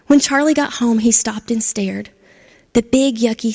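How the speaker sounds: gentle storybook narration with voiced characters; reading to children. A narrator's reading. Storyteller reading to kids, lively and gentle. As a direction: tell it like a bedtime story to a class.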